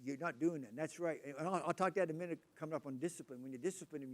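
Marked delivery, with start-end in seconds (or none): 0.0-0.7 a parent's firm, louder no. Retold or imitated. Parent telling a child no, firmly. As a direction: put your foot down like a parent. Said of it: "we say".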